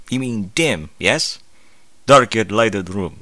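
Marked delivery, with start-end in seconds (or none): 2.0-3.2 baffled reread. Real, not acted.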